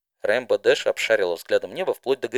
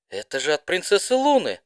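higher, louder excited gasp; 8 semitones higher, 3 dB louder than usual. Acted. Rainbow recognising the letter is from Luna, gasping. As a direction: gasp as you realise who wrote it. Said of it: "ахнула Рейнбо".

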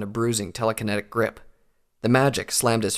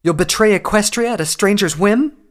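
high, loud outraged scorn; furious scorn; 11 semitones higher, 9 dB louder than usual. A narrator's reading. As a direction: accuse him with contempt. Nightcanter scorns the traitor.

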